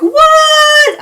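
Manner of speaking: replaying a stunned what; stunned disbelief. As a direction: act out your shock at the last episode. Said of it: "I'm still just like".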